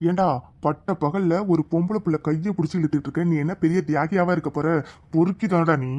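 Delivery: stern hero. Acted. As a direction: order him slowly like a film hero. Hero scolds the thug. (கதாநாயகன் கடுமையான கட்டளை)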